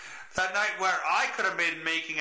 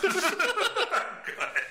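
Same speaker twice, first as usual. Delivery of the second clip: ordinary talk, nothing marked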